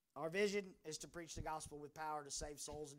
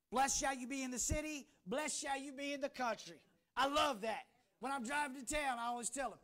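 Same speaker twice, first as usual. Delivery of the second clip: higher-pitched, emphatic scripture preaching; energetic preaching; 7 semitones higher, 10 dB louder than usual. Real, not acted. Pastor proclaiming blessing on city and country, energetic preaching.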